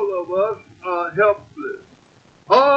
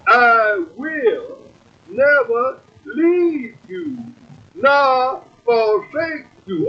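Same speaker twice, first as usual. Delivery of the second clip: slow, measured Bible reading, each word weighed; scripture reading; slower than usual. Acted. Preacher reading Hebrews to the congregation, slow and solemn. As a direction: read it out slow like holy writ.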